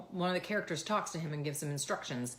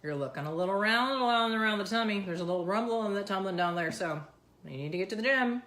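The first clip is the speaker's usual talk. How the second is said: imitating her son; 3 semitones higher, 6 dB louder than usual. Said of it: "he's always like".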